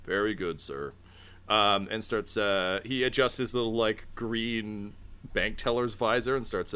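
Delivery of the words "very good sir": weary dealer. Acted. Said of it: "sighs and he goes".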